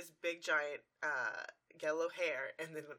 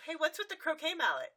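laughing question; 10 semitones higher, 5 dB louder than usual. Retold or imitated. Voiced partygoer question.

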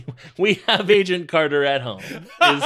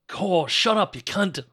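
higher-pitched mock Cockney outburst; Eliza Doolittle accent; 6 semitones higher, slower than usual. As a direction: let a rough Cockney accent slip out. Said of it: "Her Eliza Doolittle comes back out".

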